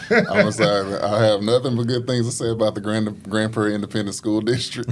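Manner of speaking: overly polished, formal praise; customer service voice. Pretend. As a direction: sound like an official spokesperson. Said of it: "Turn on the customer service voice".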